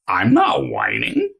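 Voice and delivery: whiny denial. Retold or imitated. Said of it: "he'll say that in a whining tone of voice".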